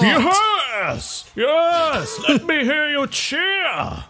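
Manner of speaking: high, drawn-out triumphant cry; calling to the crowd. Acted. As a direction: whip up the crowd, stretching it out. Acted racer working the crowd.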